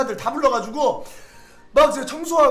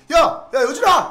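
louder and higher, shouting a name; calling out; 4 semitones higher, 8 dB louder, slower than usual. Retold or imitated. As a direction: call him across the yard. Sergeant calls soldier's name.

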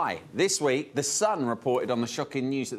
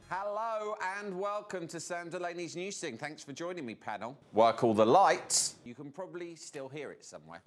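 quiet run-through; 4 semitones higher, 5 dB quieter than usual. Acted. Rehearsing intro alone, quietly.

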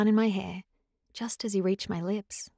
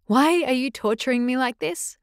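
choked, pleading cry, a touch higher; anguished sob; sobbing plea; 4 semitones higher, 4 dB louder than usual. Acted. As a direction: beg him through tears. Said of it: "I sobbed as I clutched his collar".

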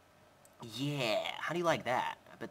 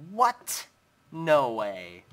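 shocked what; 10 dB louder, much slower than usual. Real, not acted. Gamer stunned his pet wolf leveled up, shocked yelp. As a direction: yelp it in sheer disbelief.

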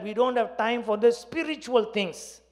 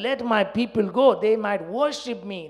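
forceful proclamation; 2 semitones higher, 5 dB louder, much faster than usual. Acted. Quoting God's command in sermon.

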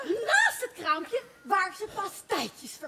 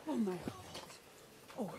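dismayed; 5 semitones lower, 12 dB quieter than usual. Acted. Mayor hears inspector is here.

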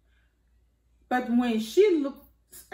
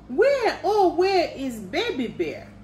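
high, loud worried call for a lost cub; 7 semitones higher, 3 dB louder than usual. A narrator's reading. Mother bear calling for her lost cub, loud and high. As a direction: call out anxiously into the woods. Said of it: "calls Mama".

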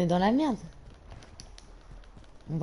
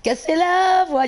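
slow, a bit higher and louder, voice cracking on purpose; mock broken voice; 7 semitones higher, 5 dB louder, slower than usual. Gamer joking about her own bad voice, mock crack. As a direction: fake a cracked voice for laughs. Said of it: "y a pas que moi qui a une voix de merde".

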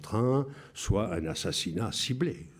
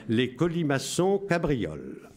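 laughing; 6 semitones higher than usual. Real, not acted. Laughs while reading message.

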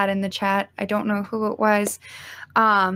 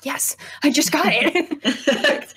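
laughing delight; 5 semitones higher, much slower than usual. Retold or imitated. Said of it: "and I was like".

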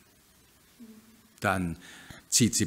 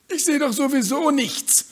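growling; 9 dB louder than usual. Acted. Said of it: "knurrt das Huhn".

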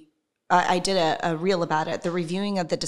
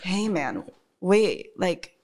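stoned hippie voice; much slower than usual. Retold or imitated. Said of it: "some sort of stoned hippie voice".

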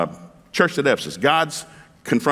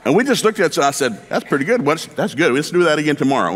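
delighted; 4 semitones higher than usual. Real, not acted. Delighted retelling of first date.

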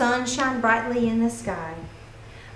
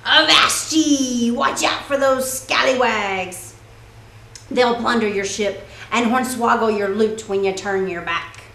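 pirate voice. Acted. Pirate dog voiced in read-aloud.

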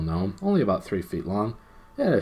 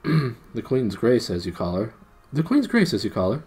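raised, emphatic prince's correction; stern; 4 semitones higher, 5 dB louder than usual. A narrator's reading. Prince answers the frightened gnome, stern. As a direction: pronounce it sternly and louder. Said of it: "said the prince sternly".

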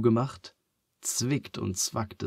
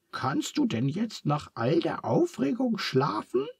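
Charles, higher and gentle; 11 semitones higher than usual. A narrator's reading. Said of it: "fragt Charles sanft". (Charles fragt Phineas sanft und fürsorglich)

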